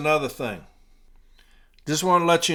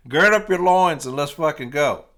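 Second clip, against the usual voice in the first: louder, pumped-up battle call; fired-up rallying cry; 5 dB louder than usual. Retold or imitated. Union rep firing up carriers, loud rally cry. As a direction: rouse the troops. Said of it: "I was going crazy".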